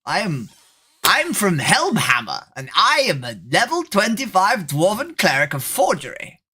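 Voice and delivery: lightly voiced nerd playing a dwarf; a hint of a hammy dwarven hero; mock dwarf roleplayer. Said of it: "I'm going to roleplay".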